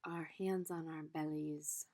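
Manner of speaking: calm teacher's guiding voice; guided meditation. Acted. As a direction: gently lead them into the body. Leads a body meditation.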